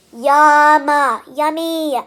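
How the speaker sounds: a big, loud yum of craving. Real, not acted. Dreaming of a cheeseburger to herself, loud delighted yum. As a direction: blurt it out like you can taste it.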